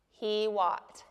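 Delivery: "he walked" with a throat catch before the final T; glottal catch. Shown as a demonstration. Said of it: "with that little apostrophe before".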